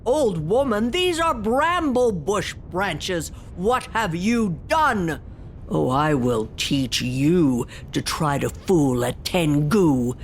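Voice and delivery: a demon's pained, threatening voice; angry demon. Acted. Demon stuck in brambles threatening the old woman. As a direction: accuse her, wounded and menacing. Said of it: "She heard that demon go".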